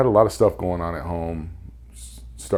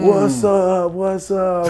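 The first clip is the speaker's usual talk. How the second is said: high, loud, delighted hey-buddy call; pitched-up joyful what's up; excited greeting; 13 semitones higher, 4 dB louder, much slower than usual. Retold or imitated. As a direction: call out like spotting an old friend. Buddy Pedro greets him in solitary.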